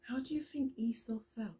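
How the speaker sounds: fast hushed whisper; soft whispered question. Real, not acted. Teacher asking the children, whispered. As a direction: ask it gently in a whisper. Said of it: "teacher asks children softly".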